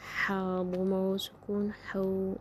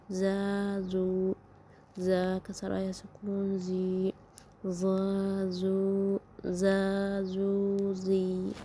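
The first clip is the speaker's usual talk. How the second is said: measured, chanting letter-by-letter reading drill; syllable drill recitation. Shown as a demonstration. Teacher leading pupils through the Arabic alphabet, in a chanted drill voice. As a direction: spell out each syllable, stretching the blended ones slowly.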